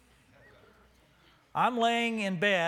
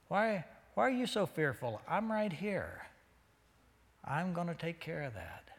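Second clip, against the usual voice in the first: softening, calming voice; gentle reassurance; 4 dB quieter than usual. Acted. Jesus to his fearful disciples in the storm, gently reassuring. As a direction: settle them down, softer with each phrase.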